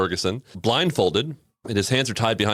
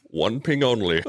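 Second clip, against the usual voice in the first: light mock Scottish-Russian accent; a touch of Connery playing Russian; Sean Connery. Co-host finishing the movie quote, light Connery accent. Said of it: "Sean Connery trying to do a, a Russian accent".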